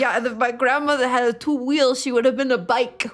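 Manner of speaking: imitating an exasperated Italian chef; Italian accent. Mimicking a chef answering his host, Italian accent. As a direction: put on a comic Italian accent. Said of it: "I'm allowed to do that accent".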